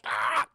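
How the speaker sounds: short, loud mock yell; imitated cry of pain. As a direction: yelp like a stabbed movie victim. Imitating man stabbed through face.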